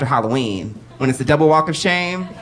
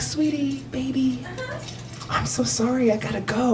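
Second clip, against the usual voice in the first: mock sweet goodbye; 9 semitones higher, 8 dB quieter than usual. Sweet-talking lover to leave.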